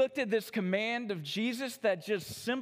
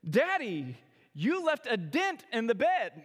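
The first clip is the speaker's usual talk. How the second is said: lightly voiced little girl, swooping pitch; hint of a child's singsong exclamation; young daughter; 2 semitones higher than usual. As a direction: imitate a small daughter teasing Daddy. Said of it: "My youngest daughter".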